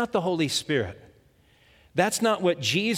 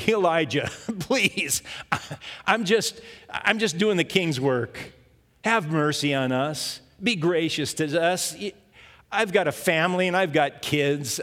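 pleading commander; 3 semitones higher than usual. Retold or imitated. Commander kneeling before Elijah, mild pleading plea. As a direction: beg Elijah for mercy, mildly. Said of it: "but he was pleading".

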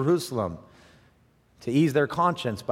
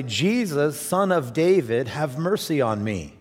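mild mock cry out; 2 semitones higher, slower than usual. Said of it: "he began to cry out and say".

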